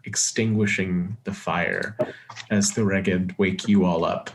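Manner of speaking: measured game master narration; scene setting. Acted. Game master describes daybreak at camp, measured narration. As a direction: set the scene in an even storyteller's voice.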